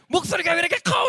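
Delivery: high-pitched, shouted complaint; scolding old woman. Retold or imitated. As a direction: complain loudly as the irate old lady. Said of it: "그 할머니가". (할머니처럼 높게 따지듯 소리치기)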